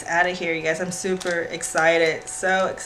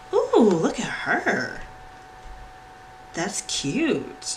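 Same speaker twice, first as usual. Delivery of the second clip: whisper; much slower than usual. Real, not acted. Whispered admiration.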